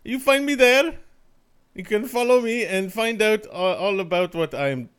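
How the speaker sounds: high, loud goofy plug voice; silly announcer voice. Pretend. Plugging his handle to the stream, in a high goofy voice. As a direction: hams up his Twitter plug. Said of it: "plugging his Twitter in a put-on voice".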